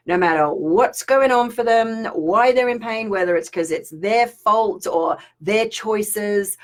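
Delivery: slow, soothing guidance; gentle teaching. Shown as a demonstration. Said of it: "teaching the technique".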